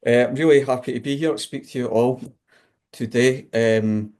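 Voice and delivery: broad Scottish accent, quick and chatty. Real, not acted. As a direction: talk in your own broad Scottish accent. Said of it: "I have got a very strong Scottish accent".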